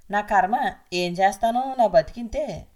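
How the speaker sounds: husband grumbling irritably as he walks out; irritated grumbling. Acted. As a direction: snap out the complaints as if fed up. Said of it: "అని విసుక్కుంటూ".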